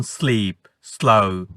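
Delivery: "স্লিপ, স্লো" opening on a plain hissed s, not sh; S sound. Shown as a demonstration. Teacher contrasts with S-H words, plain s sound. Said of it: "S এর উচ্চারণটা হবে স".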